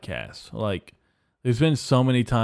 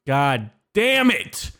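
mock frustrated curse; 5 semitones higher, 4 dB louder, much slower than usual. Outburst after slip.

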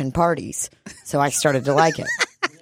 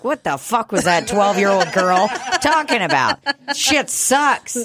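imitating a disgusted shopper; 5 semitones higher than usual. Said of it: "be like".

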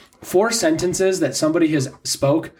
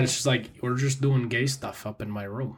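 mock Minnesota accent; 3 semitones lower, 8 dB quieter than usual. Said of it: "that horrible Minnesota accent".

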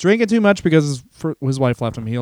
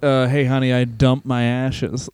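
imitating George; 4 semitones lower, slower than usual. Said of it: "That's how he said it".

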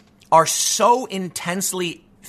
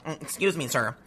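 timid nerd voice; 4 semitones lower than usual. Retold or imitated. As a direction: meekly scold like a nervous nerd. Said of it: "nerdy dude with glasses going".

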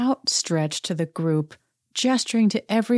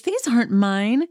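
irritated; 6 semitones higher, slower than usual. Retold or imitated. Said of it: "And she says".

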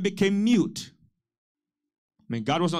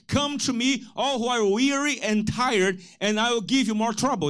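deliberately wrong Jesus quote, a bit higher; mock misquote; 5 semitones higher than usual. Shown as a demonstration. Pastor teasing the congregation with a wrong verse, mock-serious. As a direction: twist the scripture on purpose for a laugh. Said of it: "Is that what he said?".

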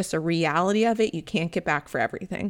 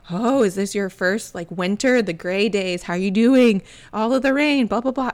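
lightly mocking concerned locals, louder toward the end; mimicked small talk; 4 dB louder than usual. Locals asking newcomer about the gray winter, mimicked small talk. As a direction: imitate well-meaning chit-chat, lifting into blahs.

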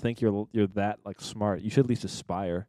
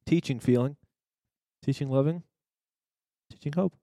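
mock inspirational speech; 4 semitones higher than usual. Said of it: "inspirational speech".

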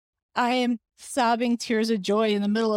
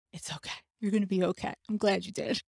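much softer, gentle comfort; reassuring; 5 dB quieter, faster than usual. Retold or imitated. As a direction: soothe her like a kind nurse. Nurse reassuring tearful patient.

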